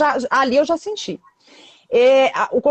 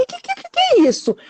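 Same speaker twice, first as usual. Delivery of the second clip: much higher, stammering and fast, in shock; stunned disbelief. Retold or imitated. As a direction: sputter the words, too shocked to answer. Shocked reaction to the doctor. (gaguejando em choque, bem mais agudo)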